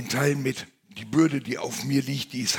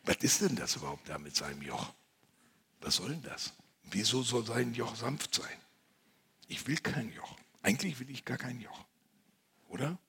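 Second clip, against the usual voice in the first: grumbling; 8 dB quieter than usual. Acted. Mock grumbling confession.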